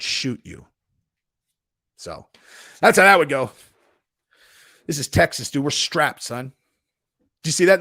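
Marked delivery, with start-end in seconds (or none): 4.9-6.5 lightly voiced cocky streamer; punchy mock tough talk; Sneeko. Streamer warning a would-be sparring partner, mock tough. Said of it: "that was my Sneeko impression".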